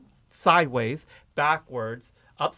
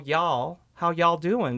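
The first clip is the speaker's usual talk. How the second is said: put-on Oklahoma accent; 2 semitones higher, much slower than usual. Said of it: "I grew up with a little bit of an accent".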